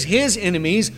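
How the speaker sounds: ordinary talk, nothing marked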